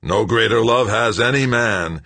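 high, loud, manic declaiming; babbling. A narrator's reading. Greg yanking at the pump bolts, babbling loudly. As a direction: declaim it wildly as you babble. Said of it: "Greg babbled".

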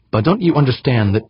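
seething plea, cut off mid-sentence. A narrator's reading.

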